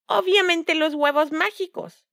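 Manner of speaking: slow, high smug stepmother; wicked stepmother. A narrator's reading. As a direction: savor the choice greedily. Madrastra elige con codicia. (madrastra malvada, lenta y presumida)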